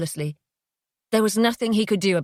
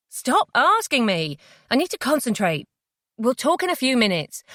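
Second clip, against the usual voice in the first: tense snapping; 5 semitones higher than usual. Acted. Jay fending her off while driving.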